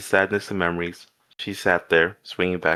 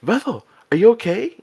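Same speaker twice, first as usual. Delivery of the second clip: alarmed, much higher and louder; deep concern; 6 dB louder than usual. A narrator's reading. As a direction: rush to him, worried. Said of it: "a deep concern in her voice".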